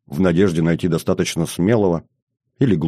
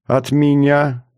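bitter smirk; 6 semitones higher, much slower than usual. A narrator's reading. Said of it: "горько усмехнулся Максим".

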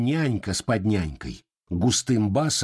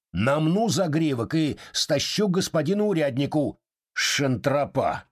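threatening; 5 semitones higher than usual. Acted. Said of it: "говорил угрожающим голосом".

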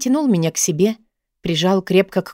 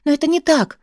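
protesting; 8 semitones higher than usual. A narrator's reading. Heroine protests her lover's words.

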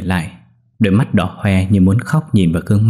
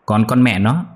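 higher, spiteful and scornful; spiteful taunting; 3 semitones higher than usual. Acted. First wife threatening the third wife, spiteful taunt. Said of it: "đày nghiến".

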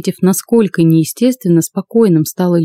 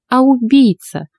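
put-on higher-pitched, composed old woman; even voice; 6 semitones higher, slower than usual. A narrator's reading. Old witch revealing the real threat, even. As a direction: evenly deliver the correction. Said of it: "ровным голосом ответила Фёкла".

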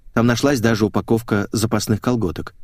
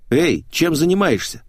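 higher, lilting woman's voice; Natasha's voice; 7 semitones higher than usual. A narrator's reading. Natasha hails someone on the recording, higher character voice. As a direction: call out a playful question, higher.

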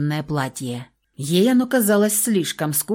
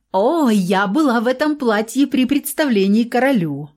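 smiling; 5 semitones higher than usual. A narrator's reading. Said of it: "улыбнулась Луиза".

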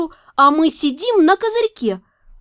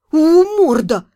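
grumbling; 4 dB louder, slower than usual. Acted. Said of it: "проворчала я".

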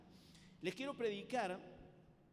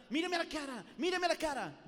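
higher, louder repeated command; preacher's command; 7 semitones higher, 6 dB louder than usual. Retold or imitated. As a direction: order the crowd to look at you. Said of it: "decía".

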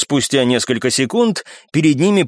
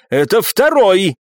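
higher, slow and emphatic; raised-pitch, drawn-out insistence; insistent cry; 6 semitones higher, slower than usual. A narrator's reading. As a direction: shout it in a contained way, stretched out. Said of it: "не менее громко прокричал Виконт".

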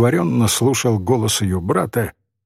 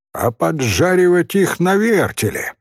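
put-on higher-pitched, insistent boy; relentless; 7 semitones higher than usual. A narrator's reading. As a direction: press on without mercy. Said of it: "безжалостно продолжал мальчик".

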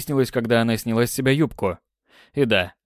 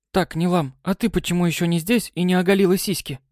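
demanding; 6 semitones higher than usual. Acted. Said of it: "требовательно задала вопрос".

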